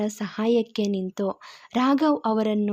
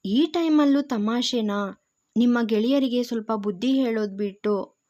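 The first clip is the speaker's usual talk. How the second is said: complaining. Acted. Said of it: "ದೂರಿದನು Gautam".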